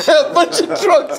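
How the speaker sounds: a big laughing imitation of the cleaner's accent, the final words stretched slow; imitating cleaner's accent. Imitating the sweeper's accent about the drunks, laughing.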